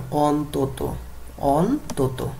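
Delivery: অন্তত split carefully as on-to-to; pronunciation model. Shown as a demonstration. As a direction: sound out অন্তত for the class, both o endings clear. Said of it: "উচ্চারণ করতে হবে কিভাবে?".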